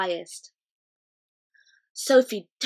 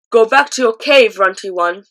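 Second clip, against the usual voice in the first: jeering giant; 13 dB louder than usual. A narrator's reading.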